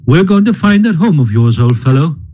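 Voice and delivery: lightly voiced Rat, kind and brisk; pleasantly. Rat telling Mole they will find his home, pleasant. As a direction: reassure him with a smile in the voice. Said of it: "replied the Rat pleasantly".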